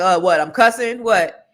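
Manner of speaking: retold mock indignation; mock surprise. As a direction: play innocent about cussing. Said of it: "I was like".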